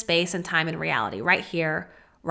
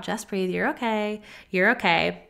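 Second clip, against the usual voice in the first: soothing self-talk. Pretend. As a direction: hush yourself like a scared child. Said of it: "I'm talking to myself like I would a little child".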